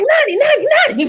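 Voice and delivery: retold frantic calling. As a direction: call out the name like a panicked mother. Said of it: "was screaming 'cause she was like".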